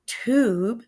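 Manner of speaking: "tube" with a clear long oo. Shown as a demonstration. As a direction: stretch the oo in "tube". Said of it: "You have the O O as in".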